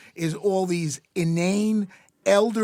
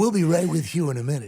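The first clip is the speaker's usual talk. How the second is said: Movie Phone; much faster than usual. Acted. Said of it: "you also do the movie phone voice".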